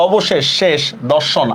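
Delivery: অবশেষ, শেষ, দর্শন each stopping on its last consonant; endings cut off. Shown as a demonstration. Teacher contrasts the options, stopping অবশেষ, শেষ, দর্শন on the final consonant. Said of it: "আটকে যাচ্ছে".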